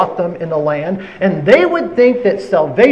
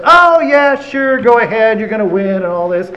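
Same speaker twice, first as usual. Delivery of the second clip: sarcastic; 3 semitones higher, 3 dB louder than usual. Retold or imitated. Micaiah mocking the king's prophets, sarcastic and loud. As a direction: say yes while meaning no. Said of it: "I don't want some sarcastic answer".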